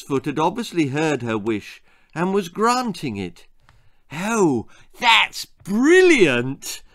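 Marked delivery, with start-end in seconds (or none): 4.1-6.8 high, loud and drawn-out delight; a sudden idea that thrills her; excited shriek. A narrator's reading. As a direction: squeal it with glee. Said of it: "shrieked Belinda".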